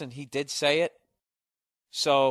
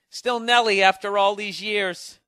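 slow, higher, grand TV-host intro; showbiz host voice; 7 semitones higher, 6 dB louder than usual. Retold or imitated. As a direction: announce it like a cheesy TV host. Mocking celebrity interview clichés.

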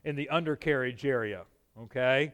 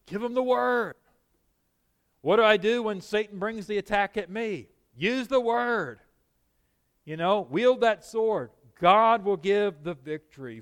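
raised, slowed preacher's cadence, higher pitch; preaching; 5 semitones higher than usual. Acted. Preacher driving home the point.

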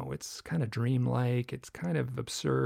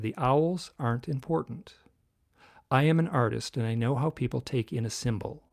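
channeled cadence. Retold or imitated. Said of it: "I speak in a different cadence completely".

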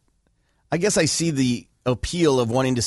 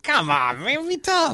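mock tough-guy; 12 semitones higher, slower than usual. Mocking retort to fighter.

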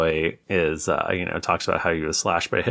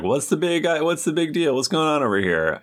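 mock stern teacher; 9 semitones higher, faster than usual. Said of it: "McGonagall's like".

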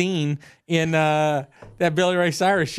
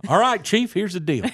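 gigantic firefighter; 4 semitones higher, 3 dB louder than usual. Retold or imitated. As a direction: imitate a big firefighter, higher voice. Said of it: "he kept calling me Chief".

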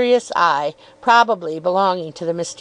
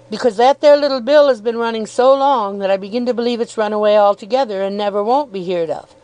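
milkman calling into house. Acted. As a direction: throw the voice down the passage. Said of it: "still throwing his voice into the house".

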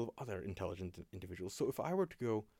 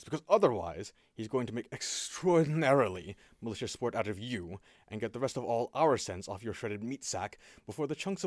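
stern warning; 6 dB louder than usual. Acted. Watchman warns player, voiced by GM.

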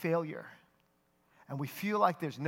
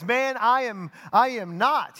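rising, louder protest; Peter's denial swelling into a raised voice; 5 semitones higher, 8 dB louder, slower than usual. Acted. Peter insists to the questioner, voice rising. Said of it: "Peter's voice begins to raise".

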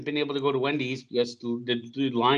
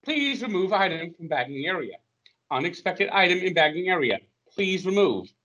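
high robotic checkout machine voice; self checkout prompts; 4 semitones higher than usual. Retold or imitated. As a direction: recite it like the checkout machine, higher. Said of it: "you remove the item".

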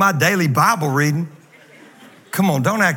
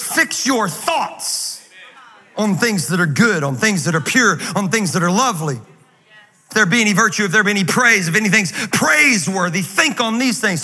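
scripture reading; 3 semitones higher than usual. Acted. Pastor reads verse with emphasis.

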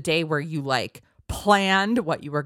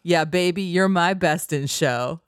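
upbeat lyric recital; 2 semitones higher, 3 dB louder than usual. Pretend. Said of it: "Here's the chorus".

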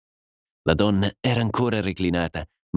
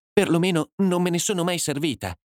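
words coming out slowly; 8 semitones higher than usual. A narrator's reading. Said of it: "le parole uscirono lentamente".

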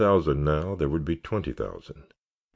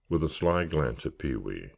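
ordinary delivery

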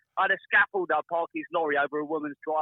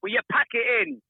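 higher, louder retold scolding; a mock-exasperated call to pack it in; exasperated telling off; 9 semitones higher, 4 dB louder than usual. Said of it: "and I say".

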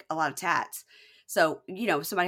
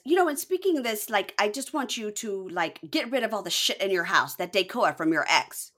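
lightly voiced bossy girlfriend demand; 2 semitones higher than usual. Telling boyfriend to clear out ex's stuff, demanding.

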